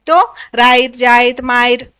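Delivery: राइत, जाइत, मायर with an i glide; Nagpuri words. Shown as a demonstration. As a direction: recap the Nagpuri forms clearly. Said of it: "Nagpuri में ई का".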